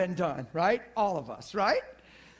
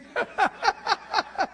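real laughing fit, high and loud; 12 semitones higher, 4 dB louder than usual. Real, not acted. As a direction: burst out in high breathy laughter. Laughing at a funny memory.

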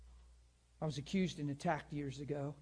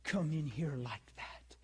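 mildly mocking mad woman; 3 semitones lower, slower than usual. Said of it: "she was just way mad".

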